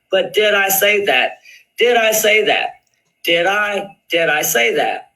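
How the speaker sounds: mocking quote. Mimics rival's repeated chat challenge.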